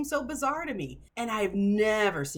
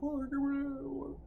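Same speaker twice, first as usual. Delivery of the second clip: smug; 6 semitones higher, 4 dB quieter than usual. Retold or imitated. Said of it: "now you're like".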